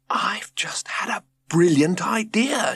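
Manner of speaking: sudden bright idea, said high and slow; thrilled announcement; excited announcement. A narrator's reading. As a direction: announce it like a eureka moment. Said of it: "she announced".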